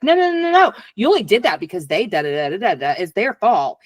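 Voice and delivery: defensive inner voice. Retold or imitated. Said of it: "this other one's like".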